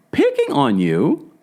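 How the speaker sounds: high, slow, mocking disbelief; high mocking echo; incredulous. Real, not acted. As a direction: throw it back way up high in disbelief. Disbelief at Meredith's claim.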